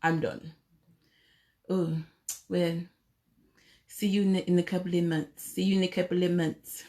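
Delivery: dismissive mock brush-off, murmured; Trump impression. Husband brushes off his wife in bed, soft mock Trump voice. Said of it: "And he might say something like".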